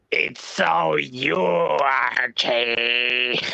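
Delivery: slow, drawn-out mock impression; impression of Archie. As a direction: stretch it slowly, teasing Archie. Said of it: "How's my impression of you".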